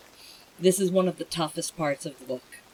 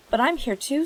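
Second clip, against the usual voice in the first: higher, louder earnest protest; Atreyu protesting; 9 semitones higher, 4 dB louder than usual. A narrator's reading. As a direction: insist he feels nothing. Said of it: "said Atreyu".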